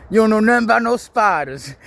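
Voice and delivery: retelling the prank call punchline, high and loud; prank caller line. Retold or imitated. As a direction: belt it like the indignant prank caller. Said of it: "he said".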